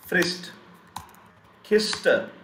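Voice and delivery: "Frist, Kiste" with a hissed middle s; German "Kiste" as KISS-te, said singly. Shown as a demonstration. Teacher models middle S for students, a voiceless s. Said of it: "we pronounce it as s".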